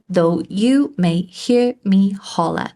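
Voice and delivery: counting out the syllables evenly; teacher tapping out each beat. Shown as a demonstration. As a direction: separate each word of "Though you may hear me holler". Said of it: "count the number of syllables".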